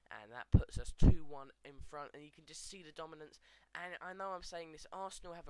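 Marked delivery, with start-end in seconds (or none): 0.1-2.1 excited. Real, not acted. Goal puts his team ahead.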